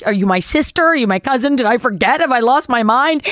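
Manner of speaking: mild mock panic; anxious rambling. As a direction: grope for the answer in distress. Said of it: "'Cause she's like".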